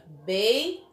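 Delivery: "beijou" split, bei, pause, long JOU; stressed syllable demo. Shown as a demonstration. Teacher proves JOU is strongest, "beijou" split and drawn out. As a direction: separate "beijou" and dwell on the last syllable. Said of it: "ele é a sílaba mais forte".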